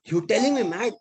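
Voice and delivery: high, indignant outraged challenge; furious retort. Retold or imitated. Auto driver insulted by passenger, shouting indignantly. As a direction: throw the insult back at him, offended. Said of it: "he became furious, angry".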